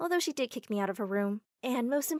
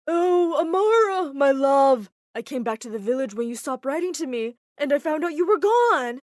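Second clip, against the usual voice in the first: overjoyed fiancé; 4 semitones higher, 10 dB louder than usual. Acted. Fiancé arrives, greets Amara.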